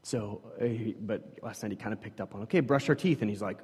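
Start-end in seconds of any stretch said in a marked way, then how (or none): 2.4-3.2 lightly voiced upbeat parent; parent's instruction. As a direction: imitate a parent announcing the bedtime routine, slightly raised pitch. Parent voiced announcing toothbrushing.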